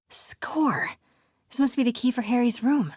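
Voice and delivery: small victory cheer; pleased little yelp at the find; quick excited score; triumphant. Real, not acted. Finds the hidden key.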